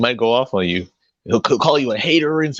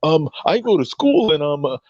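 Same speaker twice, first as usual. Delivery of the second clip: mocking imitation; 4 semitones higher than usual. Mocking S0's excuses.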